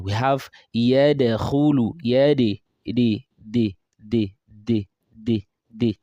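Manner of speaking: yadkhulu, the d bounced as de; slow yadkhulu with a de echo; dal with echo. Shown as a demonstration. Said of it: "eat that particular same point".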